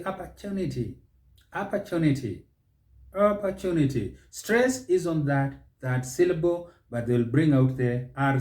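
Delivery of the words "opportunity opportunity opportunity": "Opportunity" as ah-per-TOO-ni-ty; American opportunity. Shown as a demonstration. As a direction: open first vowel and sound the R in "Opportunity". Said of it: "The Americans will say".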